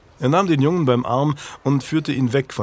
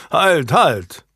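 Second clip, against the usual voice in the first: a higher, startled call to stop; taken aback; 4 semitones higher, 4 dB louder than usual. A narrator's reading. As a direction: stop him mid-step, caught off guard. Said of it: "widersprach Julian verblüfft". (verblüfft und etwas höher gerufen)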